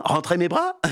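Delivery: "Rentrer mes bras?" rising on "bras", feigned puzzlement; puzzled question. Acted. Dégourdi plays dumb to the witch, rising question. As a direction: ask it back as if baffled. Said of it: "fait mine de ne pas comprendre".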